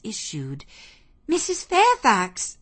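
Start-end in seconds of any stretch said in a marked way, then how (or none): 1.3-2.6 high, loud call for someone; raised voice, pitched to carry. A narrator's reading. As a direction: call out urgently to someone in the house. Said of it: "I called out".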